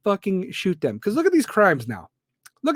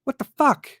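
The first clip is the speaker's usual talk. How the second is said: incredulous outburst; 8 semitones higher than usual. Real, not acted.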